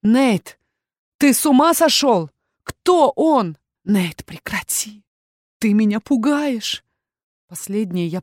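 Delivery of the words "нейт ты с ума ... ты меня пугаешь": frightened cry. A narrator's reading. Frightened Aya pleads.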